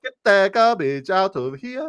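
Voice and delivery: high, slow, loud fake Asian accent; mock Asian accent. Host demonstrates the catchphrase, slow mock Asian accent. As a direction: draw it out in a put-on Asian woman's accent. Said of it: "Trying to do the Asian chick".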